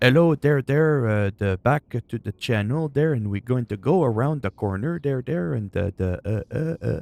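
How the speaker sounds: parody of a French accent. A French speaker dismissing the French accent, in a mocking French accent. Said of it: "nothing appealing about, uh".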